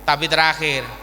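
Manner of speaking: usual speaking voice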